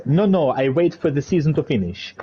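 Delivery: a lightly put-on, bad Italian accent; mock the Italian driver's Italian accent, barely there; awful Italian accent. Commentator quoting the Italian driver's DM, weak Italian accent. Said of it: "that's my awful accent".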